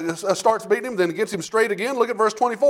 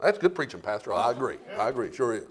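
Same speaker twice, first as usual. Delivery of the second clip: mock congregation reply; 9 semitones lower, 7 dB quieter than usual. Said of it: "preacher answers himself as listener".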